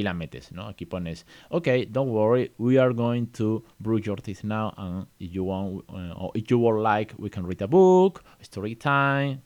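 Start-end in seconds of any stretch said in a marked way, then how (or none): 1.5-9.4 bedtime parent voice. Shown as a demonstration.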